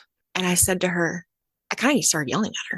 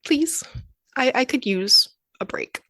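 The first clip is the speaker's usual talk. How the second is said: eager relief; 6 semitones higher than usual. Retold or imitated. A tired mom accepting a neighbor's babysitting offer, pleading with relief. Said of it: "I'm like".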